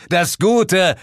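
slow, high, grandiose proclamation; hammed-up heroic speech; triumphant shout. A narrator's reading. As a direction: declaim victory to the skies. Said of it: "schrie ich laut".

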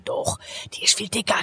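hushed whisper; gossipy whisper. Retold or imitated. Strangers gossiping about a celebrity, hushed whisper. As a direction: whisper it behind her back. People gossiping half-aloud.

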